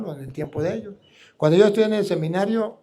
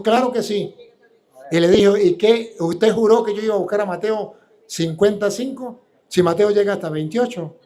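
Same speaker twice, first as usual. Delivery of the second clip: retold debate retort; 3 semitones higher, 5 dB louder than usual. Retelling the heated public debate.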